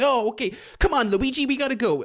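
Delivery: put-on high-pitched, peppy kids'-movie voice; energetic cartoon hero. Streamer imitating his predicted Mario voice for children, high and energetic. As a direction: pitch it way up, like an eager animated hero. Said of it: "maybe slightly higher pitched 'cause he's doing a, a children's voice, a bit more energetic".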